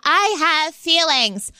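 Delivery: slow teasing melodrama; mock dramatic. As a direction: ham up the hurt feelings. Cohost mocks her hurt tone.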